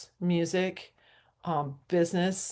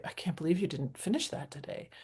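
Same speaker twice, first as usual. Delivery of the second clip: quick, soft self-reproach; self-critical; 8 dB quieter, faster than usual. Retold or imitated. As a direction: scold yourself under your breath, rushed. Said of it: "I will be very critical with myself".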